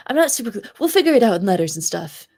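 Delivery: ordinary delivery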